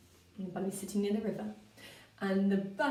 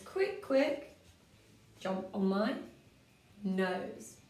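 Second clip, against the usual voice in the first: bunny voice; much slower than usual. Acted. Bunny voice again.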